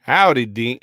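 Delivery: bad Australian accent sliding into Texan; failed Australian accent. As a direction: attempt Australian, land in Texas. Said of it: "trying to go for an Australian accent".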